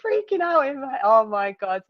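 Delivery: high, loud, laughing excitement; excited rush. Real, not acted. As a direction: bubble over reliving it. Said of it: "I was literally".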